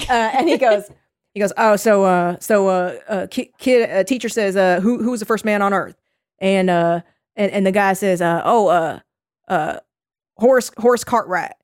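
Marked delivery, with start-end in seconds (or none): 1.6-11.5 put-on halting Southern old-timer telling a joke; Southern old man. Old Southern guy telling his teacher joke to camera, halting. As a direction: stumble through it with uhs, in a Southern voice. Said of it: "they're also very Southern".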